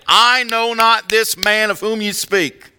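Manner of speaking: loud, high, drawn-out shout; cursing, swearing denial. Acted. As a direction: shout it out as a vehement, acted denial. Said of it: "He began to curse and to swear".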